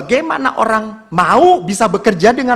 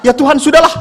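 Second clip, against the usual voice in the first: higher-pitched comic giving up; mock exasperation; 5 semitones higher, 3 dB louder, faster than usual. Weary priest gives up praying, mock exasperation. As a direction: bargain with God, pitched up and hurried.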